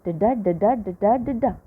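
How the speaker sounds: alternating weak-strong da-DA pulse, like a metre; sing-song da-DA demonstration of a beat; rhythmic beat. Shown as a demonstration. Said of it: "it has a beat".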